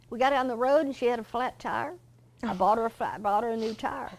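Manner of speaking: cheerful Mister George. Retold or imitated. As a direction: brush off the apology lightly and brightly, as Mister George.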